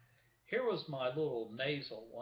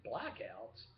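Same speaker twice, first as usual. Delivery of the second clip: imitating a viewer's puzzled "Blackouts?"; puzzled question; 3 semitones lower, 6 dB quieter than usual. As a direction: voice the viewer asking "Blackouts?" in mild disbelief. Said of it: "you're probably thinking".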